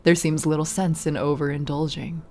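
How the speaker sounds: a hint of a cold vampire hostess, unhurried; Magdalena the vampire. Vampire to her shaking captive, mild mocking menace. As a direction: toy with the prisoner, understated menace.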